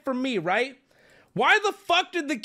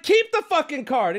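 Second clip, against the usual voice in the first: higher, loud playful brush-off; joking shout; 6 semitones higher, 3 dB louder than usual. Retold or imitated. Customer shouting back at the worker, joking. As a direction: toss it off as a mock yell. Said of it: "I'm joking at this point".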